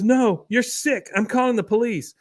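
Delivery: high-pitched mock outrage; Luann's indignant refusal. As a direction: imitate an alarmed woman, pitched high. Luann refuses, threatens police.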